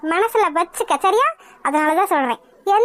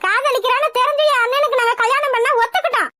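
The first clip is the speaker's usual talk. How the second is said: higher-pitched, offended complaint; indignant protest; 3 semitones higher than usual. Acted. Groom's sister blaming the bride's mother, indignant protest.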